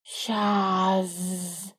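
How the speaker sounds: the snake scoffing from the tree; snide. A narrator's reading. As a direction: scoff it from the leaves. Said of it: "ехидно раздалось из листвы".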